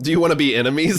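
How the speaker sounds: put-on jokey Boston accent. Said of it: "It's that Boston accent".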